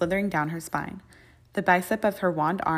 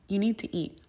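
apologetic whisper; 3 semitones higher than usual. A narrator's reading. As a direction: whisper it gently, almost sorry. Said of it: "a slight apology to her tone".

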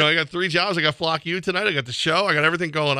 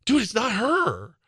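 retold exasperation; 8 semitones higher, slower than usual. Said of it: "I'm like".

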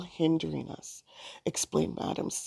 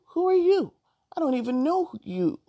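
indignant outburst; 10 semitones higher, 4 dB louder than usual. Acted. Allison refuses stranger, indignant.

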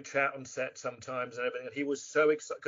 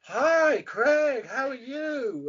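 high sing-song greeting, stretched and swooping; Norman Brenner; 9 semitones higher, 6 dB louder, much slower than usual. Retold or imitated. Actor mimics co-star greeting him, high sing-song. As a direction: imitate a nervous man's exaggerated rising-falling tune. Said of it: "he got this sing-song in his voice".

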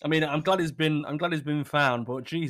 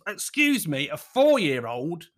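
incredulous; slower than usual. Real, not acted. Incredulous at the news item.

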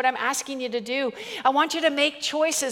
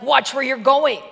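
mock Mother Teresa voice; 5 dB louder than usual. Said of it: "in my best Mother Teresa voice".

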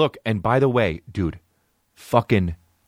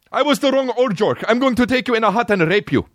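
high, strained, put-on villain voice; creepy kidnapper voice. Comic voices a fake Uber driver threatening a rider. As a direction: play the wrong driver as a creepy abductor.

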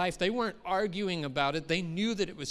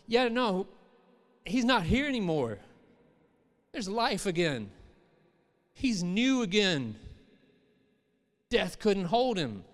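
joyful rock proclaiming; 3 semitones higher, 3 dB louder than usual. Pretend. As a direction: proclaim it like good news. The rock voiced speaking.

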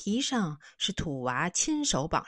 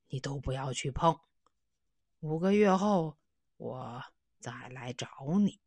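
lightly voiced old man; 4 semitones lower than usual. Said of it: "说".

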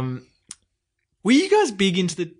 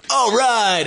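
loud, high whoop; cheering; 10 semitones higher, 6 dB louder than usual. Retold or imitated. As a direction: cheer like a pumped-up teenager.

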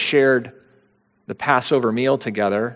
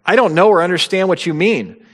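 higher, insistent acted denial; emphatic denial; 6 semitones higher, 4 dB louder than usual. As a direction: deny it firmly, pitch lifted. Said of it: "denied it so emphatically".

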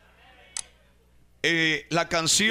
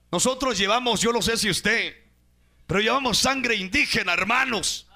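fiery preaching; 3 semitones higher than usual. Acted. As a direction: preach it out at full force, pitch climbing. Preacher's rising exhortation.

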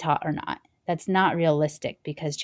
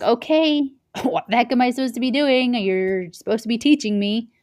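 much higher and louder, laughing in disbelief; exasperated outburst; 6 semitones higher, 5 dB louder than usual. Retold or imitated. New worker fed up with the boss, exasperated and loud. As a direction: burst out in frustrated disbelief.

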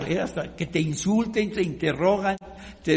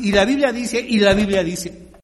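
louder, mock preachy repetition of la Biblia dice; mocking religious leaders; 7 dB louder than usual. Preacher mocking religious leaders' pat answer, loud and preachy. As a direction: parrot the leaders' stock answer, loudly. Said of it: "Y así contestan los líderes religiosos".

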